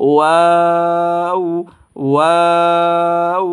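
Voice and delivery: ওয়াও drawn long with rounded lips; rounded Waw. Shown as a demonstration. Teacher showing students a long rounded Waw. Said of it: "দুই ঠোঁট শুধু গুল করে দিবেন".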